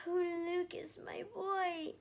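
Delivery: high, loud joyful cry; light up at seeing her son; gasping delight. Acted. Mother welcoming her son home, high and delighted. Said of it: "she gasped".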